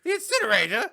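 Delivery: loud, high alarmed question; mock freaking out. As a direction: shriek it as a hammed-up panicked father. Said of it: "freaking out".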